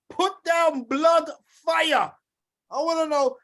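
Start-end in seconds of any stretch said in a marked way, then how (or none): 0.1-2.1 louder shouted call. Real, not acted. Host urges listeners again, hyped shout. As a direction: bellow it so the crowd answers. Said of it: "I wanna see some blood fire".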